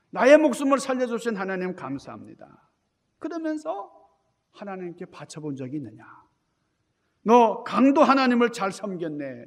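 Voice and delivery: angry father. Retold or imitated. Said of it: "아버지가 화가 나가지고".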